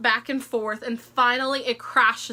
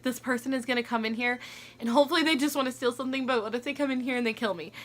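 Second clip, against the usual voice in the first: panicked thoughts; 4 dB quieter, much faster than usual. Retold or imitated. Retelling panicked thoughts in bed.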